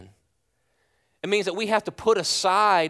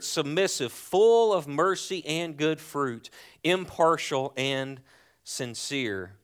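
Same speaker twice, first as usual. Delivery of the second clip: scripture reading. Acted. Reads scripture aloud.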